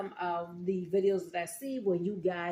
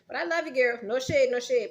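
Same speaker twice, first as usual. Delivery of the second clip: sassy; 6 semitones higher, 9 dB louder than usual. Real, not acted. Sassy shout-out, no shade.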